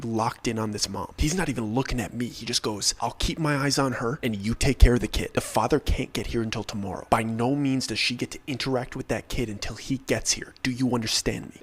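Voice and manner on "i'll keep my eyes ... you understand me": firm, serious orders; stern and steady, no room for argument. Retold or imitated. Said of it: "speaking very firmly".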